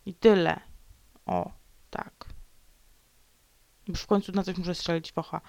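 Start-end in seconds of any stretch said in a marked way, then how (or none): 1.3-2.3 low unvoiced whisper. Real, not acted. Vlogger whispering her sulk to viewers. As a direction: murmur it smugly under the breath.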